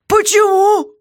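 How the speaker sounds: guard voice, high and loud; jailer's voice, clearly put on; gruff jailer. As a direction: play the surly jailer shouting down.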